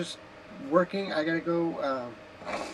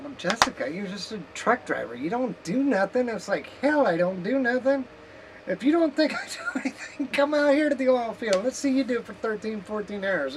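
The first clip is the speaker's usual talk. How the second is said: indignant retort; 4 semitones higher, 3 dB louder than usual. Retold or imitated. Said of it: "Somebody's like".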